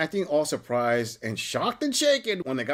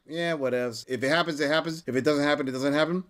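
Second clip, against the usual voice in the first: a hint of a lower, shrugging voice; lightly voiced indifferent guy; 4 semitones lower than usual. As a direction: toss it off like a bored guy. Host voicing the indifferent alternate.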